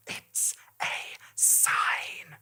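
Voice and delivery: breathless awed whisper. Acted. Thomas seeing the unicorn, awed whisper. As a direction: barely voice it, in wonder. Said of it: "Thomas whispered".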